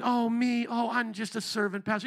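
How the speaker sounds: hammed-up show of humility; mock self-abasing. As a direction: play the overly humble servant, mockingly. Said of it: "One is the self-abasing".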